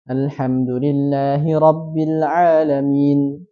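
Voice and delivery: slow tilawah, two-beat ending; Quranic recitation. Shown as a demonstration. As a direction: recite ta'awudz evenly. (tilawah ta'awudz dua harakat)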